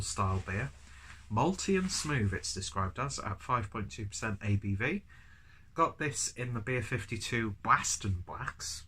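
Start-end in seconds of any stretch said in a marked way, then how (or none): 5.7-8.8 slow, attempted Boston accent. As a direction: try out a Boston accent slowly. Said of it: "My attempt at a Boston accent".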